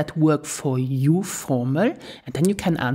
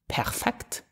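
"Perfekt," whispered very softly and low; 6 semitones lower, 8 dB quieter than usual. Shown as a demonstration. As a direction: breathe "Perfekt," as a whispered aside. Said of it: "list recap, whispered".

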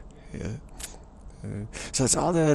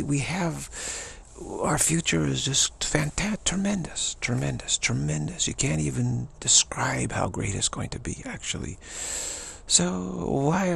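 put-on higher, swooping British accent; gushing British optimist; 5 semitones higher than usual. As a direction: brush off trouble in a lilting British accent. British optimist act continues.

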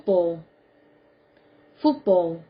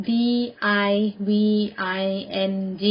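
spelled out. Shown as a demonstration. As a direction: spell it out with a pause after each letter. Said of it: "Spell it". (สะกดทีละตัวอักษรช้า ๆ)

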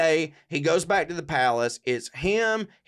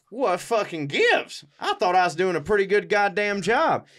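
higher, mock-indignant protest; indignant Tsar; 5 semitones higher than usual. Tsar protesting to his captors, mock-indignant. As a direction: act mildly put out and baffled. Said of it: "Tsar Nicholas is just like".

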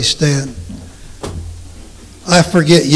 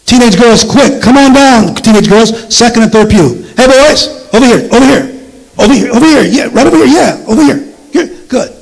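raised voice calling across the church; calling from far away; 7 semitones higher, 3 dB louder than usual. Real, not acted. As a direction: call them over from the pews. Calling teenagers to come forward.

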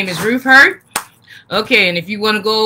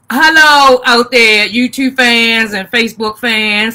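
host hailing YouTube and Facebook fans, a little louder; calling out to fans; 2 semitones higher, 6 dB louder than usual. Real, not acted. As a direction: project the greeting out to the viewers. Calling out to stream viewers.

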